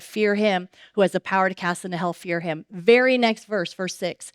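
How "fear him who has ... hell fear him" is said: fast, offhand run through "Fear him who has the power"; brisk quotation, no weight; quick recap. Shown as a demonstration. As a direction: rattle off the verse in passing. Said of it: "Jesus just said".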